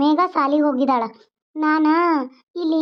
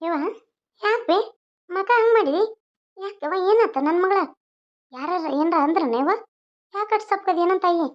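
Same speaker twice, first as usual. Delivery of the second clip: higher, caring mother's coaxing; consoling mother; 4 semitones higher than usual. Acted. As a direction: coax a sulking daughter tenderly. Mother consoles sad daughter. (ಮಗಳನ್ನು ಸಮಾಧಾನಿಸುವ ತಾಯಿ, ಎತ್ತರದ ದನಿ)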